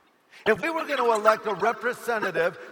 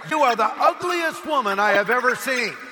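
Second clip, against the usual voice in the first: mildly raised voice for a parrot; loud parrot insult; 3 semitones higher, 4 dB louder than usual. Acted. Parrot insulting a woman in the pet store, mildly loud. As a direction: announce it boldly, as a rude parrot. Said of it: "and said very loudly".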